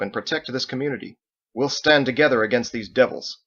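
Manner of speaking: high, loud address to a crowd; rally the room like a commander; rousing speech. Acted. Michael rallies the sailors to defend the community, loud and rousing. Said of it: "he called for their attention".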